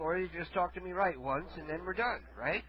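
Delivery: soft, lightly voiced old man; a hint of a feeble old caller; frail shaky old whisper. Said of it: "Well, I'm old".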